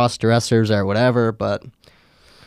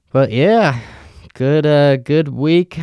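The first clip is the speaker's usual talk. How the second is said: raised, strained voice near breaking; voice giving out; 3 semitones higher, slower than usual. Real, not acted. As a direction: push a failing voice higher. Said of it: "Stretching my voice to its limits".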